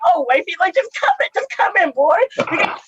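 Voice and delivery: high, sweet, welcoming tone; welcoming police voice. Retold or imitated. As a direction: usher them in warmly like a host. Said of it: "the police were just like".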